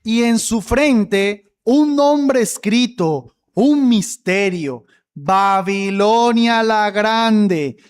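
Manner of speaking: lectura lenta y pausada de la Escritura; lectura bíblica solemne. Acted. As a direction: lee cada palabra despacio, con peso. (pastor lee el versículo a la congregación, lento y solemne)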